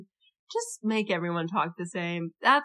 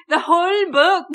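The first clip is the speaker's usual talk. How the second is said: bad Scottish accent, high and loud; Katza; 11 semitones higher, 7 dB louder than usual. Co-host imitating the audiobook narrator, exaggerated Scottish accent. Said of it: "Let me tell you how Katza sounds".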